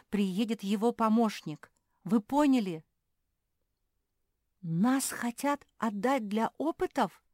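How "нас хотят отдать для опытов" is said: slow, high, horrified question. Acted. Phil realising they'll be sent for experiments, horrified. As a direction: dread sinking in, drawn out high. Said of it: "пришёл в ужас Фил".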